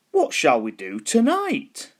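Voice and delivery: high, slow spooky skeleton voice; a creaky old skeleton musing aloud; big skeleton voice. A narrator's reading. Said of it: "he said".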